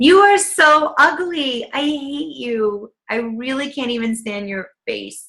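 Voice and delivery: loving, sweet voice. Demonstrating speaking to a newborn baby, loving, sweet voice. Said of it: "which is loving and sweet".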